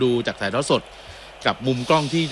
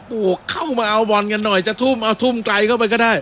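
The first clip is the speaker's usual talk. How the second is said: player calling out; 8 semitones higher than usual. Retold or imitated. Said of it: "อับดุลฮามิดบอก".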